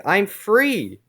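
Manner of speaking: high, loud mock exultation; triumphant cry. A narrator's reading. Fireboy breaks loose in the comic, triumphant cry. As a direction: shout it like a freed cartoon hero.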